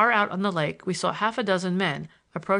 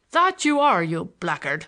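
spiteful yell; 5 dB louder than usual. A narrator's reading. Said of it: "yelled the officer, so spitefully".

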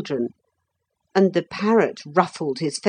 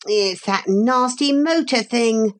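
put-on disgusted boy; 6 semitones higher than usual. A narrator's reading. Philip names the hated rider.

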